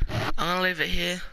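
thump of hand hitting the mic; mic bump. Real, not acted. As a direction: knock the microphone while talking. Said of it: "Sorry, I keep hitting the microphone".

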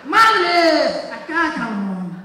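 loud high yell with a laugh; mother's yell. Acted. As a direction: shout like a mom caught off guard. Mother's cry as she swings the slipper.

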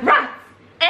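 high disbelieving question; incredulous rats. Retold or imitated. Roommate retelling her own shocked reply, high and incredulous. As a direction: echo it back in shock. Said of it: "And I was like".

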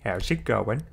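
a hint of cartoon character; Peter Griffin. Streamer trying out a cartoon voice for fun, light impression. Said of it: "my Peter Griffin voice is that good".

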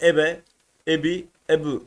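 "ebe, ebi, ebu" with a full vowel after each b; harekeli okunuş. Shown as a demonstration. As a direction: open the b into e, i, u, form by form. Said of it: "buraya hareke yaparsak". (b'yi harekeyle, ünlülü okuyarak)

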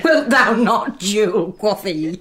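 high, laughing through the retold joke; can barely get it out for giggling; giggling through the story. Nurse laughing retelling the joke.

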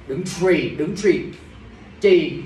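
TRÌ with a tr sound where ch belongs; mimicked tr error. Teacher points out a student's slip, TRÌ with tr. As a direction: echo the slip TRÌ, stressing the wrong tr. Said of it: "em bị trì rồi".

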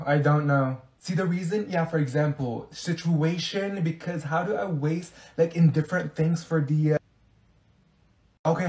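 halting, filler-strewn explanation; stop-start muddled rambling; rambling incoherently. Acted. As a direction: grope for words and never arrive.

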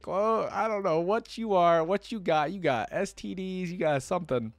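loud, high, drawn-out playful pleading; mock alarmed warning. Reader yelling at the man to close the door, mock alarm. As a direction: holler a joking warning at the story's hero.

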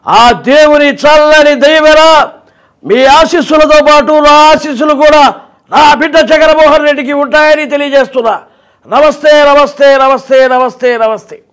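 high, slow, loud motherly blessing; elderly mother's voice. Shown as a demonstration. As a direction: bless the son like a devoted mother. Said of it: "ఇట్లా ఉంటుంది".

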